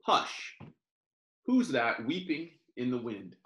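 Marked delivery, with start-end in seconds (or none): 0.0-0.6 breathy whispered shush; a whispered "Hush". Acted. Reading lullaby to baby.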